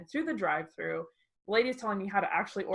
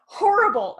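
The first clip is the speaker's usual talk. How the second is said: 1 dramatic groan; 11 semitones higher, 10 dB louder than usual. Retold or imitated. Answering husband how it went.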